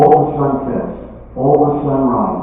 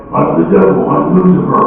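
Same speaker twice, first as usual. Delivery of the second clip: loud, high, growling devil; 6 semitones higher, 6 dB louder than usual. Acted. Comic demonstrating how the devil always sounds, growly devil voice. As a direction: roar it like Lucifer, hammed-up. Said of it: "He always sounds like that".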